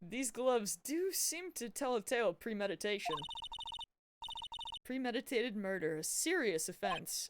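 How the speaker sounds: lightly voiced grave official; solemn courtroom ruling. Reads courtroom character's ruling aloud.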